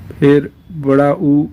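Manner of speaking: बड़ा ऊ stretched slowly as a long oo; long oo drawn out. Shown as a demonstration. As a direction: draw the ऊ out slowly. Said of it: "इसमें थोड़ी लंबी आवाज़ खींचेगी".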